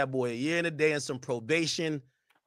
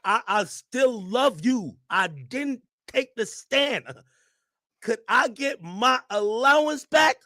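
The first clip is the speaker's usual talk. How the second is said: Gina Huey voice; 5 semitones higher, slower than usual. Retold or imitated. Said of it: "she's like this".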